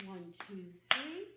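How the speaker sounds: teacher shouting the count for the clap; loud count. Acted. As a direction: punch the last clap count. Clapping count climax.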